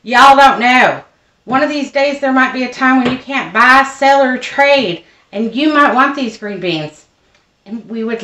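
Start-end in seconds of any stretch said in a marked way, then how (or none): 0.0-7.0 put-on loud, slow Southern drawl, higher like an older mother warning her kids; imitating mom's southern drawl. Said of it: "in her very southern drawl".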